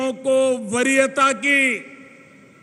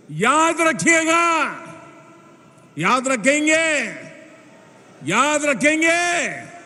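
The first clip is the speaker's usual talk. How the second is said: raised, ringing rally call; rally shout; 2 semitones higher than usual. Real, not acted. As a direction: call it out to the whole crowd. (जोशीला rally नारा)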